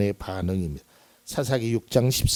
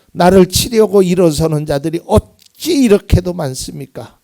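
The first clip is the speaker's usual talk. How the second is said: lamenting plea; 4 semitones higher, 5 dB louder than usual. Acted. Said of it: "막 하소연하는 거죠".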